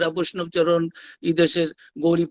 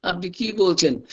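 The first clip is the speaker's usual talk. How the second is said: Narendranath objecting. Retold or imitated. Young disciple contradicting his master, mock-insistent objection. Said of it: "এই young Narendranath বাধা".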